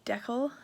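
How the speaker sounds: DECAL as DECK-ul; short E in DECAL, like DECK-ul; Canadian pronunciation. Shown as a demonstration. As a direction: say DECAL to rhyme with freckle. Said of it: "it's a decal".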